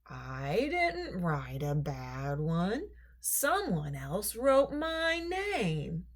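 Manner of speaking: put-on slow, drawn-out defensive boy; protesting boy. Lewis denying he wrote the bad valentine, slow and defensive. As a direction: plead innocence slowly.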